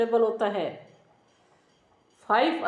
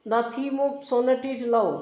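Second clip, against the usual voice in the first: slow dictation; much slower than usual. Shown as a demonstration. Teacher dictating notes to class.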